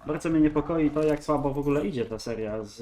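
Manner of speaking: ordinary talk, nothing marked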